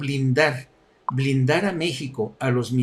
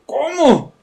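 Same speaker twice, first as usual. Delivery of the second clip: "¿Cómo?" mucho más agudo y fuerte; un Trump exagerado que no entiende nada; asombro fingido; 10 semitones higher, 5 dB louder than usual. Retold or imitated. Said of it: "Estaba como diciendo". (Trump pasmado, con voz aguda)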